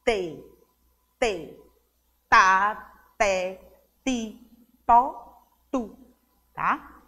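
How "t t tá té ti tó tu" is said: T syllables separately, tongue held between the teeth; língua entre os dentes. Shown as a demonstration. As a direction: trap the tongue at the teeth for every T. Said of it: "prendemos a língua entre os dentes". (sílabas com T, língua presa entre os dentes)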